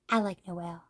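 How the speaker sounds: soft whispered confession. Retold or imitated. Fan confesses love for Noelle in a whisper. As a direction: whisper it like a secret.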